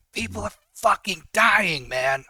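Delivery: loud, high outraged protest; acted distraught outburst; desperate shout. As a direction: yell it in anguish at a friend.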